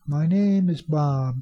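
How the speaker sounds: slow example with "name" drawn out; stress on name. Shown as a demonstration. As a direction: lean on "name", then land firmly on "Bob". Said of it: "No, name".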